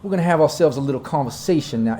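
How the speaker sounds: grand, slow Southern self-introduction; pompous Dixie gentleman claiming his turf; Dixie drawl. Acted. Local boss introducing himself in his district, Dixie drawl. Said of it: "my southern drawl got a little bit of that Dixie charm".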